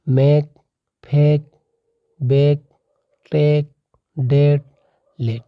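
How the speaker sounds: मैक, फेक, बेक, टेक, डेट, लेट each said slowly with a clear short ae / long e vowel; example words read out. Shown as a demonstration. Teacher drilling example words for the class, clear and deliberate. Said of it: "इसी प्रकार से आपका मैक दिया है".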